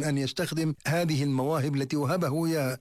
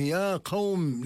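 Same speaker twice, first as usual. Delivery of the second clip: drawn-out call, a little higher; calling out to his people; 4 semitones higher, much slower than usual. Retold or imitated. The Prophet calls his people, slow drawn call. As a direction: stretch the call slowly, as if summoning a crowd. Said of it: "يعني ينادي على قومه".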